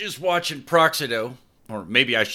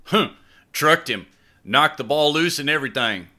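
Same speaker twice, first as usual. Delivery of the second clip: high, louder impressed remark; 8 semitones higher, 4 dB louder than usual. Acted. Boyfriend watching his brother's tackle, high impressed voice. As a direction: admire the hit despite yourself.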